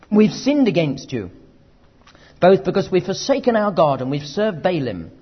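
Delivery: a people crying out, guilty; loud confession. Retold or imitated. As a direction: cry out the confession, loud and firm. Israel cries out to the Lord.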